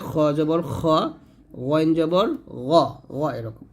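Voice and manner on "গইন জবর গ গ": গইন and গ thick from the upper throat; heavy ghain. Shown as a demonstration. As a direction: voice a full, throaty গ. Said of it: "মোটা করতে হবে". (মোটা করে গইন, গ)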